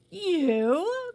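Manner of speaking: a sharp, loud, high cry of disbelief; hot outcry. A narrator's reading. Johnny cries out at Cilla's news, hotly. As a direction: fire it back, stung. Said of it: "cried Johnny hotly".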